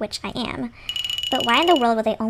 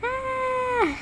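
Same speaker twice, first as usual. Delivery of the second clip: drawn-out sigh; 13 semitones higher, 4 dB quieter than usual. Acted. Character gets to bed.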